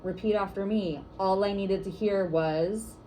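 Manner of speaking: slow, clear call for the group to echo; first call to the group, slow and measured; 1 call and response lead, slow. Shown as a demonstration. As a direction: lead the room in a chant, slowly. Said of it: "I'll say something like".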